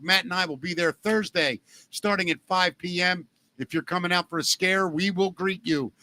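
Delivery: bouncy, lightly hyped ad read; sponsor ad read. Acted. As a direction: sell the haunted attraction to listeners. Reads sponsor ad for haunted attraction.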